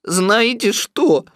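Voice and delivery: high, loud, elated donkey; excited. A narrator's reading. Donkey realises his balloon fits the pot, excited. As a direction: burst out with a great idea. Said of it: "очень оживился".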